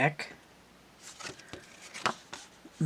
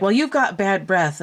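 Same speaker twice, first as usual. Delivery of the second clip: bickering comic knight, pitched up; higher-voiced mock accusation; three-headed knight; 5 semitones higher, 4 dB louder than usual. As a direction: mimic a squabbling knight's head. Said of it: "fighting amongst each other".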